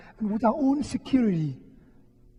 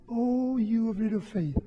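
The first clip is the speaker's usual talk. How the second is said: loving scolding; 4 dB quieter than usual. Retold or imitated. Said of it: "in an encouraging way and in a loving, scolding way".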